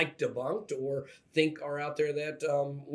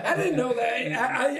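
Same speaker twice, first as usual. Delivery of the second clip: laughing; 10 semitones higher, 4 dB louder, slower than usual. Real, not acted. Laughs at the sneeze joke.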